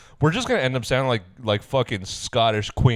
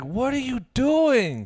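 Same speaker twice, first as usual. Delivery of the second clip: put-on baby's deadpan question; 13 semitones higher, slower than usual. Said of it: "he was like".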